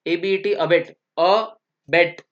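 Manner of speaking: a slow, spelled-out एबीईटी, then अबेट; spelled slowly. Shown as a demonstration. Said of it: "दो अलग अलग word है".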